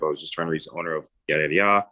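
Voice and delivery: fast script read; reading the call script fast; rattled-off script. Shown as a demonstration. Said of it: "I'll go back to the script".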